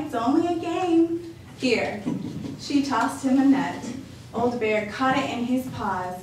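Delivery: lightly voiced cheerful grandma welcoming a guest; a hint of a bright old lady; old grandmother voice. Baba Brana's voice.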